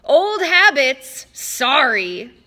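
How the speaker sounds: Mister D yelling apology to the sky, slow; yelled. Acted. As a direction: shout it up at the sky.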